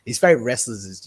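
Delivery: usual speaking voice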